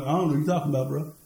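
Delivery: mock innocent shrug; feigned cluelessness; playing dumb. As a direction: act like you know nothing. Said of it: "looked real dumb".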